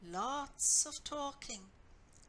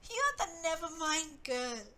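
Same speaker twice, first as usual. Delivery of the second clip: taunting; 4 semitones higher, 6 dB louder than usual. Acted. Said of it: "her new friends taunted her".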